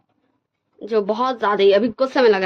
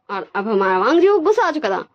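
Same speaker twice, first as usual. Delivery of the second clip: plain reading voice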